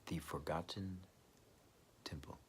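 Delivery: fading whispered echo. Acted. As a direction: whisper the title again, trailing off to almost nothing. Title repeated, fading out.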